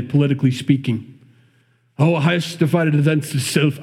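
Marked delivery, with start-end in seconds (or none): 2.0-3.8 lightly put-on Irish accent; playful, half-hearted Irish lilt. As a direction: attempt a rough Irish accent. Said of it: "why I have an Irish accent".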